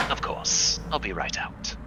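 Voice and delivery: soft put-on character voice; Hubert. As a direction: answer softly, as if from another room. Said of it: "at the Hubert sounding voice".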